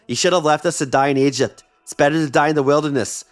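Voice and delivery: put-on kvetching in a light New York accent; hint of a New York accent, complaining dramatically; lightly put-on New York kvetch. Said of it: "I did a New York accent".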